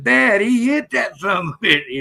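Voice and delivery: high-pitched retold protest; imitated insistent boy. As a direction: mimic an amazed kid insisting to his dad. Retelling the boy insisting to dad.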